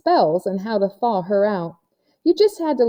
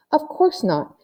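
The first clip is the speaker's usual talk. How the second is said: haughty; 8 semitones higher than usual. A narrator's reading. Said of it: "April put back on her haughty face".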